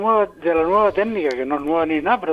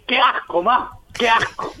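higher-pitched whine of disgust to mom; niño asqueado; 4 semitones higher, slower than usual. Acted. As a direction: complain like a grossed-out kid. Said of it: "Y yo respondía". (niño con asco, quejándose en agudo)

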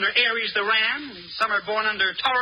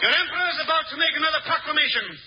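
pompous emperor; 2 semitones higher than usual. Acted. Alan playing the pompous emperor.

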